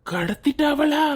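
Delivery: tearful, sobbing lament over the lost wife; crying. Acted. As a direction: weep out the news, voice catching. Husband wails over kidnapped wife.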